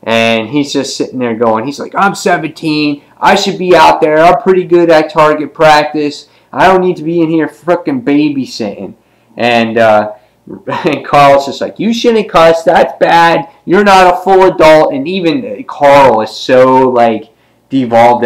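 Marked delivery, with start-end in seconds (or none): 1.9-8.9 higher-pitched mock teenage griping; a hint of indignant brat; lightly voiced cocky teen. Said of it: "he's a little prick". 11.8-14.9 put-on high-pitched little-boy reprimand; high, prim mock child voice; voiced scolding kid. Voicing young Carl scolding a teen.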